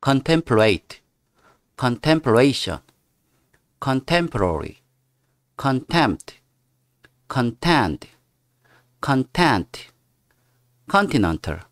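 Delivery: "Contemplate, contemplation" read loud and slow, teacher drilling; reading word list. Shown as a demonstration. Teacher reads vocabulary aloud to students, loud drill. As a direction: drill each word loudly, like a class recitation. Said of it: "제가 읽어보겠습니다".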